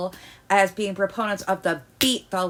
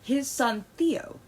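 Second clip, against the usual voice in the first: slower, steadier retake; calmer; 5 semitones higher, slower than usual. Real, not acted. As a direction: reset the voice to calm. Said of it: "my voice is apparently on mad".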